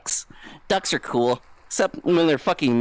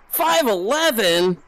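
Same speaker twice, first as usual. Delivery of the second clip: disbelief at time; 5 semitones higher, slower than usual. Real, not acted. Startled at the time.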